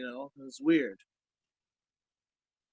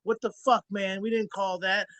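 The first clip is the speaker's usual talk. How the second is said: high-pitched, heated complaint; retold angry confrontation; 5 semitones higher than usual. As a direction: call him out, pitched up. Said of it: "Got in the back and was like".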